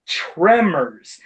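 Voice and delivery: tremors said slowly with a clear short e; deliberate, slowed "tremors"; careful TREMORS. Shown as a demonstration. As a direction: stretch tremors to show its proper sound. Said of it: "it's supposed to be pronounced".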